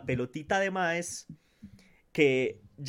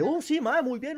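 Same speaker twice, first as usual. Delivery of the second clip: mock gym buddy; 8 semitones higher, slower than usual. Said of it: "en plan de".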